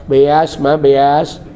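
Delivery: put-on "Beas" said with a childish lisp for beras; sheepish husband answering his mother-in-law, lisping. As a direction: mumble "beas, ma, beas" like a tongue-tied man. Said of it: "Ngomongnya cadel".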